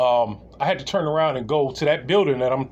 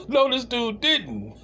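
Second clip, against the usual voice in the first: slow, high, stunned disbelief; 8 semitones higher, much slower than usual. Retold or imitated. Watching coworker's reply, slow high disbelief. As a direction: drag it out, can't believe it. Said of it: "And I'm looking like".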